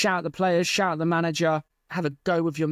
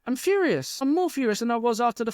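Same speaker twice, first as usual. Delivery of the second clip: furious; 4 semitones higher than usual. Real, not acted.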